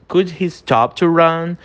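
slow careful read with "to" stressed; slow English model sentence. Shown as a demonstration. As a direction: repeat it slowly. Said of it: "o terceiro exemplo". (frase repetida devagar)

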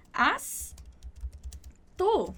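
"Haz" with a clear final Z sound, then "tu"; teacher highlighting the Z; careful pronunciation. Shown as a demonstration. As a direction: land hard on the Z of "Haz". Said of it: "jogar um baita de um Z ali no meio".

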